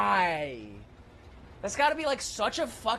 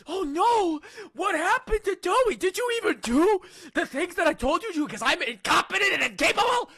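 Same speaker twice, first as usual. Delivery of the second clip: voicing the character; 8 semitones higher than usual. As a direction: play the character's protest. Acts out the game dialogue.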